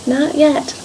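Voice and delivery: quiet, gentle refusal; calm. Acted. Master potter gently refusing the teacup, calm and quiet. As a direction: say it softly, unhurried and kind. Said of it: "and he calmly said".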